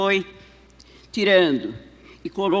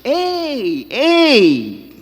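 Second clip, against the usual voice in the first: man calling out, louder and higher; raised voice with long, drawn-out calls; shouted rebuke; 3 semitones higher, 5 dB louder than usual. Retold or imitated. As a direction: imitate a man shouting a reproach. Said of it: "o homem gritou assim".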